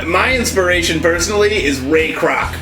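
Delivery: ordinary delivery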